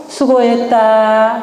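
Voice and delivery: slow, drawn-out 수고했다; slow demo. Shown as a demonstration. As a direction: say 수고했다 slowly, syllable by syllable. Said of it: "마음을 알아주는 거 뭐라고요?".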